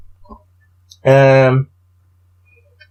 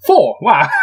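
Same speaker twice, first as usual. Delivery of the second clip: sudden high delighted yelp; excited cheer; 4 semitones higher than usual. Real, not acted. Player thrilled by his dice roll, excited yelp.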